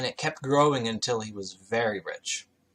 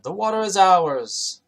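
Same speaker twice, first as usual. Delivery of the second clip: mock herders' claim; 7 semitones higher, 8 dB louder than usual. Herders quarrel over well.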